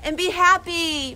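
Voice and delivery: tearful farewell; holding back tears. Real, not acted. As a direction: choke up but push through the words. Emphatic farewell wish.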